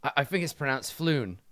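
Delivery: a thug gently correcting "Floon" with an L instead of an R; pronounced Floon. Acted. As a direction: say "Floon" with a clear L, correcting the name Froon. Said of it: "he shakes his head and he says".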